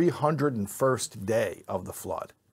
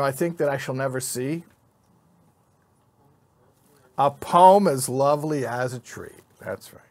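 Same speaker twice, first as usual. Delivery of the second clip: reciting a poem to the class, lightly dramatic; teacher recites Trees to the congregation, a touch of poetic delivery; poem recital. Acted. A hint of poetic recital, hushed at the end.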